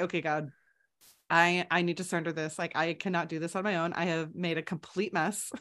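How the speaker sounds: hushed admission to God; retold surrendering prayer.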